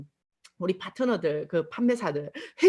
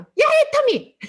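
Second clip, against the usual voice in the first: much higher, louder harsh yell of her name; angry yell; 10 dB louder, slower than usual. Retold or imitated. Angry customer yelling her name down the phone, loud. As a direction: bark the name as an annoyed customer. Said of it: "기분 나쁘면".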